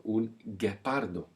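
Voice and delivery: un guepardo with hard g, gepardo; hard g sound. Shown as a demonstration. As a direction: show the silent u after g. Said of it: "We're now making the G sound".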